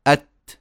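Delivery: "أت" shut, then opened with slight breath; measured "أت" with a small puff after closure; close, then release. Shown as a demonstration. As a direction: stop on the t of "أت", then release it gently. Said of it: "أغلقنا، فتحنا".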